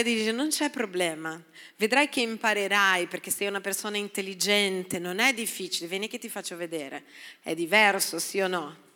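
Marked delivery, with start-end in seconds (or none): 0.3-7.0 soft, patient encouragement; calm him down kindly; reassuring. Retold or imitated. Colleague encouraging a clumsy coworker, soft and reassuring.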